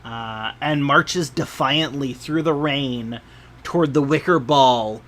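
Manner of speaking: measured game master storytelling; scene narration. A narrator's reading. Game master describing a festival procession to players, measured narration. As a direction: read the scene out with deliberate phrasing.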